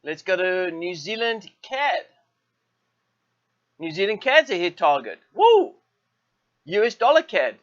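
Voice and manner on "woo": high, loud whoop of delight; excited whoop. Real, not acted. Trader cheering as another target is hit, excited whoop. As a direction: cheer it out like a small win.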